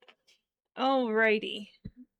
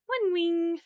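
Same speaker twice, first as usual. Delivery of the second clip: one wing, louder and higher; loud emphatic repeat; 7 semitones higher, 9 dB louder than usual. Acted. Crafter repeating her step, loud and emphatic. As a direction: belt out the repeat.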